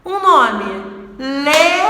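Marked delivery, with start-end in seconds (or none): 1.2-1.8 "Leonardo" broken into separate, punched syllables. Shown as a demonstration. Teacher counting claps for the class, "Leonardo" syllable by syllable. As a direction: clap out "Leonardo", one loud syllable per beat. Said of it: "Quantas palmas eu tive".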